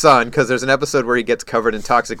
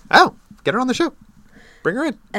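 excited; 12 semitones higher than usual. Real, not acted. Eager request to invite friend.

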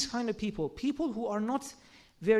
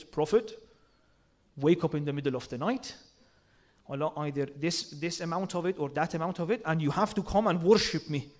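stern commanding God; 7 semitones lower than usual. Retold or imitated. Preacher mocking a harsh translation, stern low command. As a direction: bark it down like a stern master.

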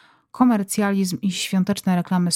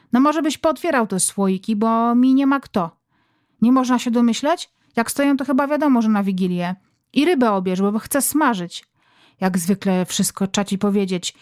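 mother nagging husband about jars and fish. Acted. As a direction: complain that nobody helps.

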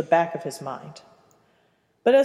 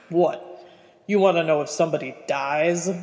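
put-on gruff old man. Aberforth answers Percy gruffly.

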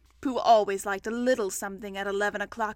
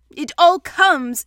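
loud, higher, slow complaint; cross; 4 semitones higher, 12 dB louder, slower than usual. A narrator's reading. Pooh blaming the front door, cross. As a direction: grumble crossly, leaning on each word. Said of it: "said Pooh crossly".

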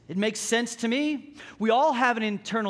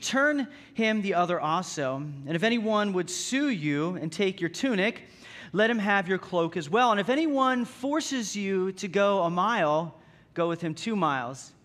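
measured, solemn reading of the passage; scripture reading; 3 semitones lower than usual. Acted. Pastor reading Matthew five to the congregation, solemn scripture reading.

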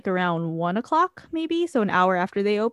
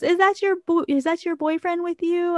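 high, put-on prying character; Sad Eye Joe; 10 semitones higher than usual. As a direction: imitate a nosy character, pitched up. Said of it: "And he goes".

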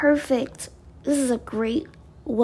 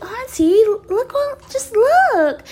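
imitating excited niece; 10 semitones higher, 7 dB louder than usual. Niece pleading, voiced by aunt.

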